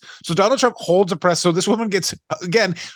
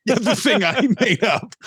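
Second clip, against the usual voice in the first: higher mocking echo of the phrase; mocking repeat; 6 semitones higher than usual. Host mocking co-host's words, higher mock voice. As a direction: parrot it back in a higher put-on voice.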